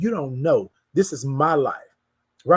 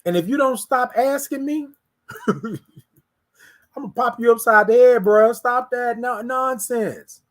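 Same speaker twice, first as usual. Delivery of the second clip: playful threat from God; 4 semitones higher, 3 dB louder than usual. Retold or imitated. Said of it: "God told me".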